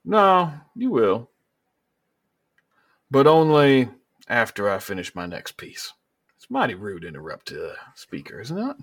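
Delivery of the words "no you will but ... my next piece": high, loud and slow, savoring the threat; a smug villain toying with him; governor, slow menace. Acted. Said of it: "And he goes".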